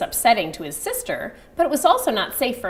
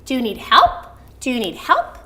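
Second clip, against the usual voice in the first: caring question; 3 semitones higher, 4 dB louder than usual. Shown as a demonstration. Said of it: "I recommend saying".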